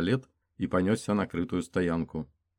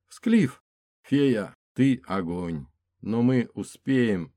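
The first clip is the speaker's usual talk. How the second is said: higher, louder urgent shouting; 4 semitones higher, 5 dB louder, much slower than usual. Acted. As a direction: shout to keep him going. Racing wounded friend to hospital.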